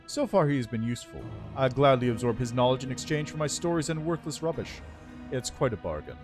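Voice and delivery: lightly voiced regal undead lich; haughty undead lord, measured and cool. Lich answers about the elf.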